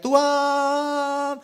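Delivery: very high, loud, drawn-out cry; mock worship shout. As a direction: stretch out a mocking cry to God. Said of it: "Teriak-teriak".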